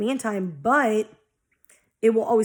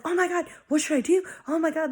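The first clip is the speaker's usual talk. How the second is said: mock panicked squeal, much higher; hamming up her old anxious self, pitched way up; imitating old panic; 7 semitones higher than usual. Retelling how she used to freak out, mock panicky and high. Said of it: "panicking, anxious as fuck, freaking out".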